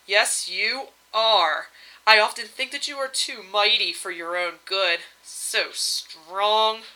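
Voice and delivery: slow, lingering purr. Acted. Varda flirting with her husband, slow purr. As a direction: draw it out, admiring and inviting. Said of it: "Varda purred".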